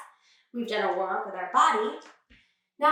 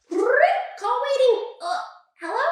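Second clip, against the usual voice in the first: mock phone voice; 11 semitones higher, 4 dB louder than usual. Mock phone call game.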